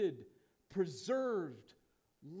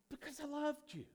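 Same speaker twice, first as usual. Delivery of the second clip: voicing God's declaration; 8 semitones higher, 3 dB quieter than usual. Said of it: "God's statement to the nation of Israel".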